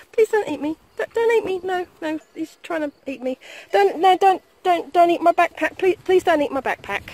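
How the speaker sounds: high, loud laughing panic begging; nervous pleading. Real, not acted. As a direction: beg the horse to stop. Horse nibbling at him, pleading.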